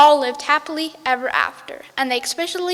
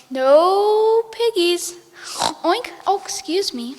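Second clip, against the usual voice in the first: chicken voice; 5 semitones higher, slower than usual. Acted. Chicken denies piggies.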